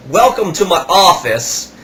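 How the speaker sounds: eager seller steering him to the till; imitating the salesman. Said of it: "and he goes".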